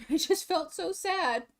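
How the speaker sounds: high giggly "so sad"; chuckling self-pity; laughing sad. Real, not acted. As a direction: laugh through the sad line.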